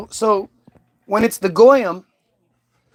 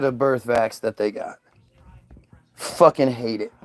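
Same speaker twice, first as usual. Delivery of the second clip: whisper; 8 semitones lower, 4 dB quieter than usual. Real, not acted. Regretful confession trailing off.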